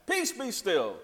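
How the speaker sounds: offhand, easy "Peace, be still" with no force, quick and light; casual calm. Retold or imitated. Jesus calming the storm like it's nothing, easy and casual. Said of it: "like it's nothing".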